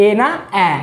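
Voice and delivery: first "এ" closed e, second "এ" open ae; vowel contrast. Shown as a demonstration. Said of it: "এ বলতে হবে". ("এ" আগে বন্ধ, পরে খোলা)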